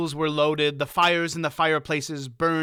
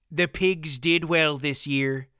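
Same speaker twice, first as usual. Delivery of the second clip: humble, unhurried farmer; modest. Acted. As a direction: play it down, gently. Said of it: "Faldor answered modestly".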